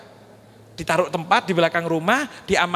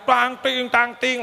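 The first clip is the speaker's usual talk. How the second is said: higher, rhythmic sword-clash noises; imitated sword clanks; 3 semitones higher, slower than usual. Children practising with swords, imitated clanging. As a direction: chant out the clink of blades.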